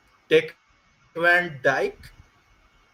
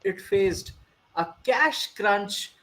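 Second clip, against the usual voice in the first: put-on Indian accent. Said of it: "I should go with an accent".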